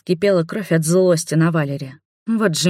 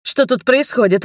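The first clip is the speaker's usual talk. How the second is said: alarmed; 7 semitones higher, 3 dB louder than usual. Acted. Mother alarmed.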